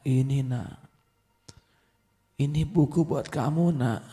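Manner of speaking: heavy, weak voice. Acted. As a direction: hand over the book with last strength. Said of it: "dengan suara yang berat". (ayah berkata berat dan pelan kepada anak)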